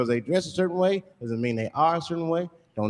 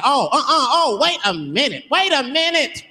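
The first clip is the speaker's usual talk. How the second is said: offended woman; 8 semitones higher, 4 dB louder than usual. Acted. Voicing offended girl.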